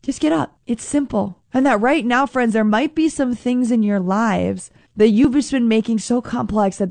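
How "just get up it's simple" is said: a touch of higher, playful nudge; lightly teasing encouragement as Jesus; gently playful push to get up. Pretend. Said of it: "Jesus in this playful way is saying".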